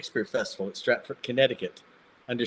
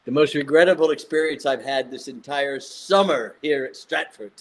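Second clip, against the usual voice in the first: put-on drunk teacher. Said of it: "she got drunk".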